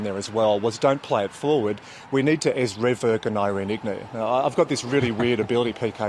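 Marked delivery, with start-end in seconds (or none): 2.1-4.1 speaking words reversed; backwards speech. Shown as a demonstration. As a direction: say it backwards, quickly. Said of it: "I can speak backwards as quickly as I can speak forwards".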